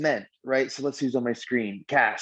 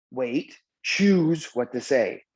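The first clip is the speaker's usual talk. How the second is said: slow, measured self-talk; deliberate pause; much slower than usual. Acted. Showing how to respond instead of reacting, deliberate pause. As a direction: take a beat after wait, then go on slowly. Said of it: "so I can go".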